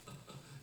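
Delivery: quiet chuckle; a brief, breathy laugh at one's own example; short soft laugh. Real, not acted. Preacher amused by his example, soft laugh.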